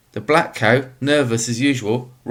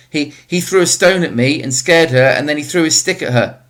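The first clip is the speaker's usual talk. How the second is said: higher, louder hurried blame; rapid, high-pitched; 4 semitones higher, 5 dB louder than usual. Acted. Tesfaye blaming Mamo to his father, rapid high-pitched. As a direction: blurt the blame out fast and high. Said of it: "in a rapid, high-pitched voice".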